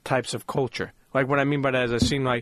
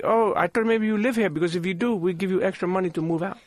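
put-on Indian accent; 5 semitones higher than usual. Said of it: "do this in the Indian voice".

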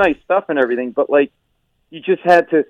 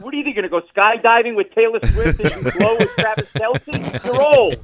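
mock exasperated reply; 7 semitones higher than usual. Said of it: "I'm like".

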